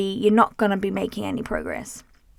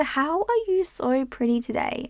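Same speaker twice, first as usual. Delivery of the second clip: delighted question; 3 semitones higher, 3 dB quieter than usual. Shown as a demonstration. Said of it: "But if I said".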